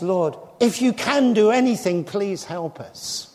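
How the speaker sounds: retold plea, hesitant on if you can; doubtful plea. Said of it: "The father of the epileptic boy says".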